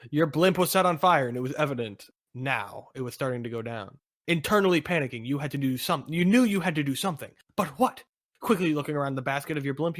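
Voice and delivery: urgent adventure narrator; story narration. Acted. Narrator telling of the burning blimp, urgent story narration. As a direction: narrate a mid-air emergency with emphasis.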